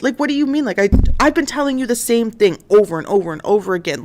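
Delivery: fast, exasperated mock protest; incredulous protest. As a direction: rattle it off as the disbelieved suspect. Accused man protests, retold.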